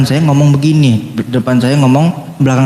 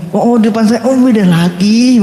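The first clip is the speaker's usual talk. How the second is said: mock amazement; 5 semitones higher than usual. Preacher privately marvels at a two-faced person, mock amazement. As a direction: marvel aloud with playful exaggeration.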